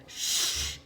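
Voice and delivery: hushed, breathy shush. A narrator's reading. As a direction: shush your sister. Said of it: "said Willie".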